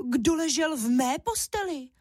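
mama bear scolding about her bed; mother bear, annoyed and sharp; angry mama bear. A narrator's reading. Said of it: "zlobila se Máša hlasem medvědí maminky".

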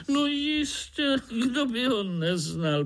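as if everyone must know; surprised frog. Acted. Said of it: "podivila se rosnička".

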